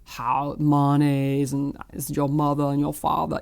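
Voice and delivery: lightly imitated old Richmond Southern accent; a hint of thick, regal Richmond Virginia drawl. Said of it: "the classic Richmond accent".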